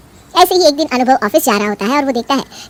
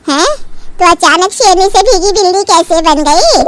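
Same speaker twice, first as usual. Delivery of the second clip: 1 mocking; slower than usual. Mother-in-law mocks bahu.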